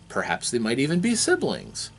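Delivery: ordinary delivery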